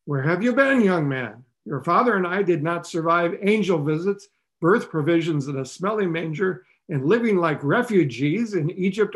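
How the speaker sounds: hammed-up mom lecturing her lost son; scolding mother. Mary telling off the lost Jesus, exasperated. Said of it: "I suppose Mary could have said".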